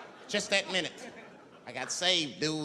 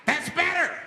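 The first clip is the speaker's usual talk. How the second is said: creepy approval; 12 semitones higher, 5 dB louder than usual. Acted. Flasher pleased.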